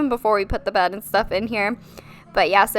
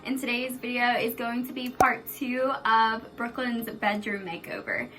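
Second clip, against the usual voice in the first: softer, hushed voice in the bathroom; whispering while hiding; 6 dB quieter than usual. Real, not acted. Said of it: "I'm hiding in the bathroom because my kids are".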